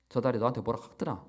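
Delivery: a fast, fumbled Gyeongsang take on "저 달이 너한테 뭐라 카더라"; botched Gyeongsang accent, rushed; Gyeongsang dialect attempt. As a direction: try the Gyeongsang line "뭐라 카더라" quickly and get it slightly wrong. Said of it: "제가 발음이 좀 틀렸죠".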